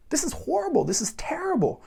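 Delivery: high, hushed whisper of horror; a friend shut out of the French conversation whispers in dismay. Retold or imitated. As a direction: whisper it, appalled. Korean friend reacting to French.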